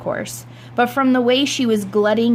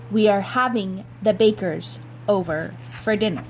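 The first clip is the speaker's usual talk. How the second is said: firm final word. Acted. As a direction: lay it down flatly. Mother final word to father.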